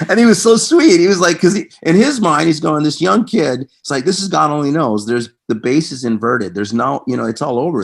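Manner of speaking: retelling the bass story while still laughing; laughing while talking. Real, not acted. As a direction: keep the laugh in the voice as you tell it.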